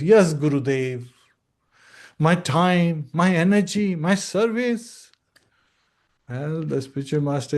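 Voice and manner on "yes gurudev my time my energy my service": eager disciple. Retold or imitated. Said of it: "The disciple says".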